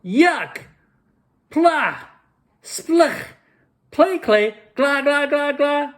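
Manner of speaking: high, loud yells of disgust; a kid shrieking at a gross cookie, high and loud. A narrator's reading. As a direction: spit the words out, grossed out and loud. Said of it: "And he yelled".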